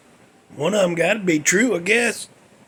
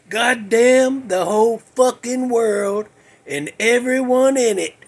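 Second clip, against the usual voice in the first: mock angry; 3 semitones higher than usual. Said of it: "he was mad about something".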